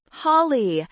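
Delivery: demanding shout of a name; father calling sharply. A narrator's reading. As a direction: call out the name as a cross father. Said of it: "my father's voice crackled through the speaker".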